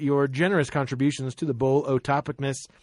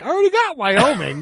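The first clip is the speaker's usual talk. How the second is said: annoyed collector; 9 semitones higher, 3 dB louder than usual. Retold or imitated. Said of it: "You'd be like".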